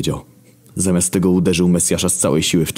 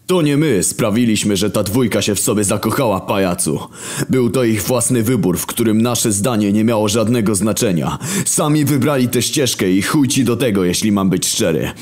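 defiant rough retort, a bit raised; mildly voiced war horseman snapping back; 5 semitones higher than usual. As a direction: talk back to the Creator bluntly.

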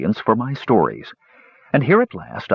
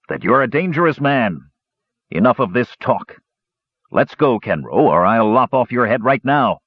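sneering. Acted. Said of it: "he sneered".

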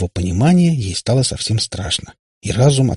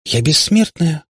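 high, astonished question; gasped amazement; 8 semitones higher, 3 dB louder, slower than usual. A narrator's reading. Katya learns of her bonus, gasping in amazement. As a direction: ask it in wide-open wonder. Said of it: "ахнула Катя".

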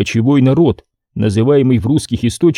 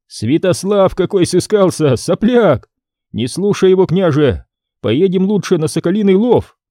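put-on scornful young boyar; 7 semitones higher than usual. Ivan scoffs at Brenko.

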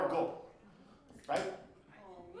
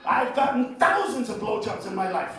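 ordinary talk

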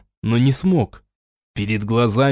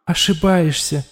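higher, otherworldly warning voice; a bitter voice inside his skull; inner voice warning; 6 semitones higher than usual. A narrator's reading. The voice in Raul's head warns him of death, bitter.

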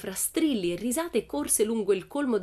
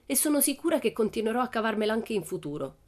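a lightly voiced cheeky girl, a bit higher; a hint of a bold little girl, pleased with herself; Pippi; 5 semitones higher than usual. Pippi answers the teacher, lightly voiced girl.

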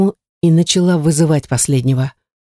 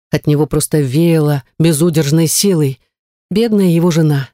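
ordinary delivery, nothing marked

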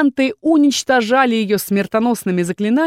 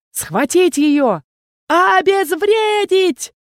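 high, slow, roaring command; bellowed orders; 9 semitones higher, much slower than usual. Acted. Captain orders his necromancers, roaring. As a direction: roar it out to seize her. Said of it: "заорал капитан Эстер".

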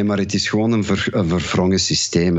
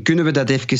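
Antwerp dialect "efkes" for "even"; 3 semitones higher, much faster than usual. Shown as a demonstration. Songwriter explaining his dialect title, in Antwerp dialect. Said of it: "in mijn Antwerps dialect".

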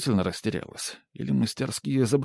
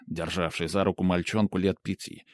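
ordinary delivery

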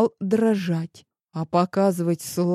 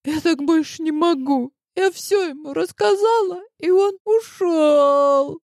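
high crying voice, breaking; рыдая; sobbing; 9 semitones higher, 3 dB louder than usual. A narrator's reading. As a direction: cry it out after sobs. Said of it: "В трубке раздались горькие рыдания".

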